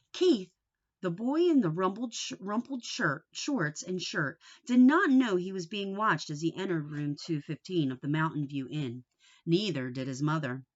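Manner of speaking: put-on steady storybook narration for kids; chapter-book read-aloud voice; reading to children. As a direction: read it like a teacher at story time. Starts reading chapter one.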